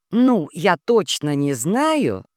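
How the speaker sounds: slow, unsure hedging; stall, not wanting to say; hesitant, faltering. Acted. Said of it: "замялась Жулита".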